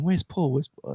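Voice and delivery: mock bandmates asking. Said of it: "everyone's going".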